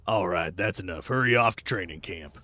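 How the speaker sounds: low, gruff-ish drill officer, lightly voiced; stern officer. Officer ordering recruits off to camp, low stern voice. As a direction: send them off like a curt commander.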